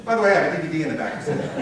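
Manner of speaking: quick, tossed-in mock sales pitch; joking salesman's aside. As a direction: rattle off the plug like a slick seller. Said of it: "like you're about to tell me".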